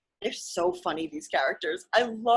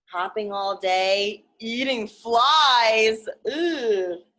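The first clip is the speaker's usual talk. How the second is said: disgusted Gerald; 5 dB louder, much slower than usual. Acted. Gerald imagines being frog.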